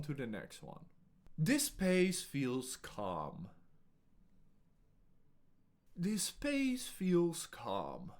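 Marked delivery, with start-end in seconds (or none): 1.4-3.5 slow, unhurried and even; very slow calm delivery. Shown as a demonstration. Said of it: "I will say each sentence in a few different ways". 5.9-8.1 slow and a bit higher; slow airy take; very slow, lifted voice. Shown as a demonstration. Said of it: "I will say each sentence in a few different ways".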